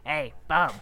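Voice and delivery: low, gruff little roach voice; cockroach voice. Pretend. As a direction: voice a cockroach begging, pitched low. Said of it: "That's how roaches talk".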